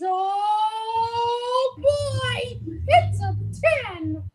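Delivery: high squeaky cartoon mouse voice; Mickey Mouse voice. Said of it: "Michael Mouse Taylor says".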